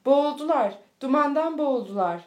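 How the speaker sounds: loud, high wailing cry; anguished shout. A narrator's reading. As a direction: cry out the loss. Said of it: "diye haykırıyordu".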